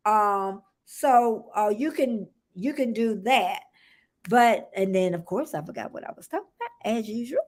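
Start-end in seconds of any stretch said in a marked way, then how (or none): 5.1-7.4 quick, soft, words swallowed by laughter; laughing at herself. Real, not acted. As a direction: helplessly giggle through it. Laughs at forgetting her point.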